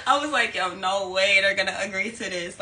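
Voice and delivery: talking through laughter; words breaking into laughs; laughing. Real, not acted. Laughing through retold thought.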